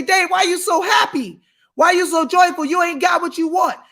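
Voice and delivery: mock shouted question. Critics questioning his joy.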